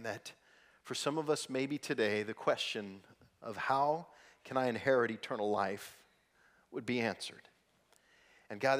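soft, low, earnest prayer voice; a pastor praying before the sermon, hushed and sincere. Acted. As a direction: pray quietly over the congregation.

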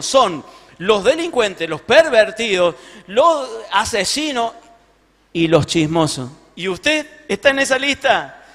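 put-on preachy old lady. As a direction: lecture her like a sanctimonious old woman, slowly. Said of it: "Y abre la boca".

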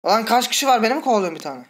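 urgent, panicky gamer; rushed alarm while fleeing; being chased. Real, not acted. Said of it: "beni kovalıyor adam var ya şu an".

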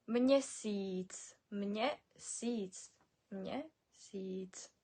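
Мєсіць as "mnye-seeets", second vowel drawn out; long i. Shown as a demonstration. Teacher modelling for learners, Мєсіць with long "i". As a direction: stretch the "i" in each Мєсіць. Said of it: "Робимо наголос на і".

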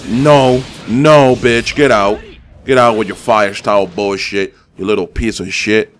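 angry yelling. Real, not acted. Yelling at opponent.

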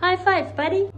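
excited. Real, not acted. Cheering the child.

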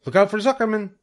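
very high gander yell. A narrator's reading. The gander directs Wilbur during the chase, yelling. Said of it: "yelled the gander".

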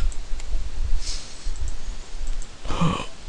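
long, quiet intake of air; gasping for breath. Real, not acted. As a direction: catch your breath. Catching breath after shouting.

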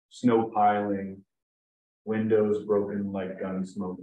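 spaced-out poem recital, line by line; poetry reading. Acted. Poet reads his Valentine's Day poem to an audience, measured recital. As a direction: let each line stand, pausing between images.

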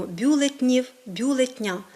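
бюлетнів, бюлетня squeezed with no е before н; wrong form, dropped е. Shown as a demonstration. Teacher quoting incorrect forms, е dropped before н. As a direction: drop the vowel: бюлет-нів, бюлет-ня. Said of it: "Такі форми є неправильними".

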